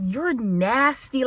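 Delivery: slow drawn-out disgust. Retold or imitated. Texting the frat, slow disgust. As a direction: stretch You're nasty out slowly. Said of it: "I was like".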